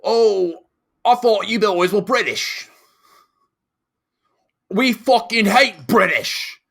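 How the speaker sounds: loud, high shouted Northern Irish imitation; drunk, hostile Northern Irish shout, hammed up; bad Northern Irish accent. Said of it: "I can't do the Northern Ireland".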